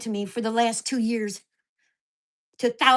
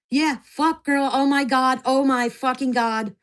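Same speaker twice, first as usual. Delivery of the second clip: exasperated outburst; 3 semitones higher, 6 dB louder, slower than usual. Real, not acted. Venting about her day.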